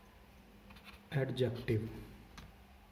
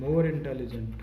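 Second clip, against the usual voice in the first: slow dictation; 4 dB louder, much slower than usual. Shown as a demonstration. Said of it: "teacher dictating slowly".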